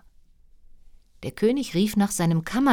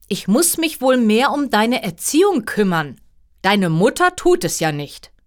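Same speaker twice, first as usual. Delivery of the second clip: loud, raised-pitch royal scolding; lightly acted stern king reproving his daughter; reproachful father; 5 semitones higher, 5 dB louder than usual. A narrator's reading.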